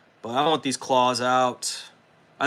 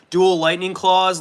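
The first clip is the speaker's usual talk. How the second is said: excited; 7 semitones higher, 7 dB louder than usual. Real, not acted. Hyped showing off his miniature.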